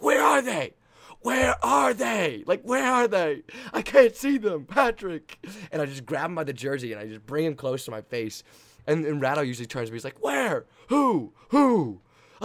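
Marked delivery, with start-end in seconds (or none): 0.0-5.4 high, loud frantic searching shout; reenacted hype bellow. Reenacts hype routine yelled at Patrick. 10.2-12.0 high, loud one-word shouts; teammate's hyped reply. Retold or imitated. Teammate's shouted replies in hype routine.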